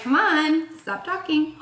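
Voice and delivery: mock nudging. Spirit tells the reader to wrap up, mock nudging.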